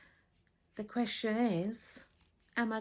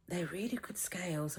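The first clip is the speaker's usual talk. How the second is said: hushed aside; 4 dB quieter than usual. Real, not acted. Confiding aside.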